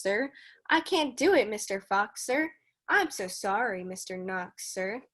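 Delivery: measured storybook read-aloud; reading to children. Acted. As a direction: read the rhyme steadily for the kids. Teacher reads Dr. Seuss aloud.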